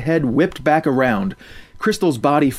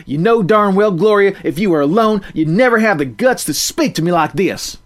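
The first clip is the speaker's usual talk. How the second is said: a hint of a defiant farm girl, louder; mild country-girl defiance; lightly voiced country girl; 5 semitones higher, 4 dB louder than usual. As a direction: stand your ground and tell her off. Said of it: "spoke in a low-pitched tone".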